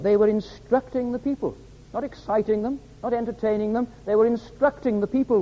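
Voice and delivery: high, pointed sermon delivery; emphatic preaching. Acted. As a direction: press the contrast on the congregation. Preacher stresses his point.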